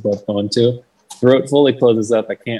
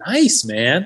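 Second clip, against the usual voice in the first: pitched-up dude approval; retold congratulations, higher voice; approving clerk; 6 semitones higher than usual. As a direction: imitate a stoked, friendly guy. Imitating evidence clerk.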